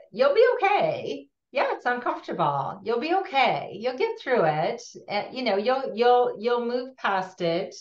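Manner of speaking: acted reassurance. Telling uncomfortable people they'll get through it, lilting reassurance.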